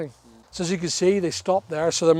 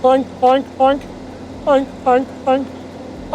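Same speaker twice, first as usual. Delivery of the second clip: mock pig oinks; 7 semitones higher, much slower than usual. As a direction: tease him with silly pig noises, fading at the end. Mocks apprentice with pig noises.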